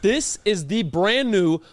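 slow showcase product reveal; ad read. Acted. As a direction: unveil it slowly, savoring it. Presenting the product slowly.

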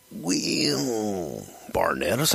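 a touch of drawling wrestler; Randy Savage. Retold or imitated. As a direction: imitate a wrestler reluctantly owning up. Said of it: "Randy gets this look on his face like".

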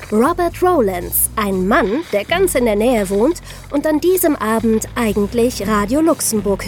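tense true-crime storytelling over music; dramatic crime narration. A narrator's reading. Hosts narrating the bank robbery to listeners, in a tense documentary voice. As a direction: tell it like a suspense documentary.

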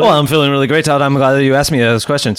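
mock speeded-up podcast guest; sped-up talk. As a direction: answer as if played at double speed. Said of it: "I wanna talk that speed now".

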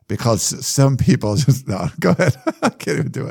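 half-hearted English accent, breaking into laughter. Shown as a demonstration. Host redoes the movie line for laughs, shaky attempt at an English accent. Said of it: "do that in English, uh, accent".

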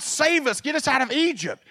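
high, pleading mock cry; mock crying to God. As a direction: beg God like whining Israelites. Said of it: "They were crying to God".

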